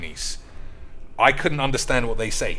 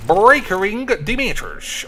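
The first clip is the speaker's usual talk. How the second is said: hyped yell; 8 semitones higher, 7 dB louder, slower than usual. Real, not acted. Hyping a big play.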